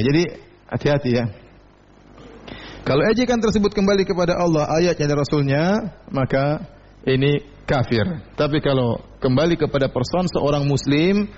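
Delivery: usual speaking voice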